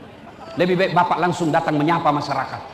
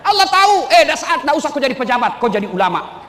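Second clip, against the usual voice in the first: raised, emphatic voice calling out; loud preaching quote; 8 semitones higher, 5 dB louder than usual. Retold or imitated. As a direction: belt it from the pulpit. Preacher quoting advice loudly. (suara lantang berkhotbah)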